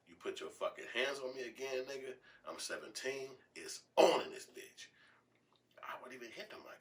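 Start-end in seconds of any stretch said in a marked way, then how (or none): 0.1-4.9 high-pitched acted threat, louder at the end; defiant teenager. Seventeen-year-old standing up to his father, high defiant threat. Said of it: "but I felt like".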